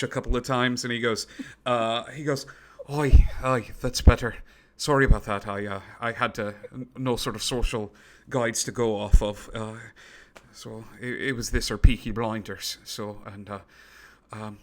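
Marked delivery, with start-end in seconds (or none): 2.9-14.6 a hint of a London voice; lightly voiced London accent, Peaky Blinders style. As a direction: settle into a light London lilt after fixing the gadget. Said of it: "the voice modulator".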